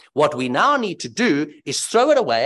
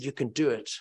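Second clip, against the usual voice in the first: encouraging teacher; 3 dB quieter than usual. Retold or imitated. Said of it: "a primary school teacher that built them up and said".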